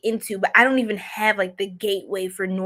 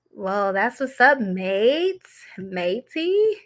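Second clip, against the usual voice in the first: mock Aussie; much slower than usual. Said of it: "I keep doing all these accents".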